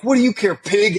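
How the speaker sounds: very high falsetto sass; high-pitched mocking comeback; mock women's retort. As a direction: throw it back in a squeaky imitation voice. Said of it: "they're like".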